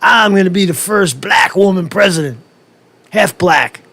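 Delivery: a hint of a gloating candidate; mock Kamala boast. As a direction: brag with a smug lift. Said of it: "She's saying".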